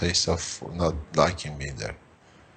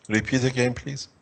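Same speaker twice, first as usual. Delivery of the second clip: usual speaking voice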